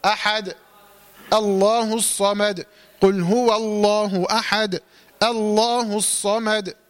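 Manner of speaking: slow recitation, bouncing the final dal of أحد and الصمد; qalqala on the stop. Shown as a demonstration. Teacher showing how to stop on أحد, final dal echoed with qalqala. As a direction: hold the vowels, release each final dal with a short echo. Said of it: "أقف عليها بالقلقلة".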